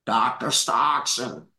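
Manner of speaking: a hint of a magazine boss calling out of the blue; Joe Weider on the phone. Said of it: "somebody named Joe is on the phone".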